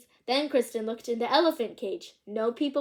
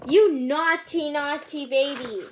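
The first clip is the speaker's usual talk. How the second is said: mock scolding; 3 semitones higher, 4 dB louder, slower than usual. Scolding the baby.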